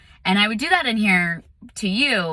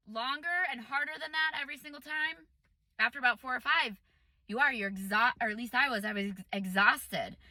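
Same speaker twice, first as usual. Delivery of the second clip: quiet after screaming; 4 semitones higher, 11 dB quieter than usual. Real, not acted.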